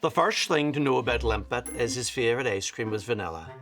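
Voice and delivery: put-on reading aloud in a Donegal accent. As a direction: read it in a light Donegal lilt. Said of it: "the accent we're gonna do this one".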